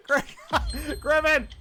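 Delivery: high, loud name shout; calling out. Real, not acted. Host hands co-host the turn, high loud call. Host calls on next contestant.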